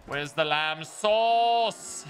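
slow, drawn-out angry TV chef; Gordon Ramsay. Retold or imitated. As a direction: drag it out like a furious celebrity chef. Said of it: "Gordon Ramsay, is that you?".

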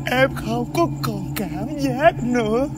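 slow, halting dread; slow, spooked near-standstill; frozen with fear. Acted. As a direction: drag the words out as if numb with fright. Frightened, claims to see a ghost.

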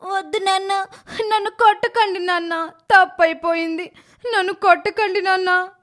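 put-on very high child's voice begging not to be hit; frightened child begging. Little girl begging her father with the stick not to beat her, high and frightened. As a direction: plead in fear. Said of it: "Nirosha చాలా భయపడిపోతూ ఉంటుంది".

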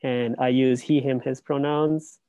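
muffled behind a face mask; speaking through a mask. Real, not acted. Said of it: "I hope you can hear me through the mask".

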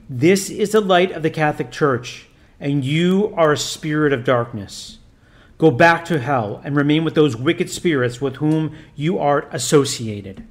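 a lightly voiced priest commanding solemnly; stern priest. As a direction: intone it like an exorcist giving orders. Priest banishes Satan.

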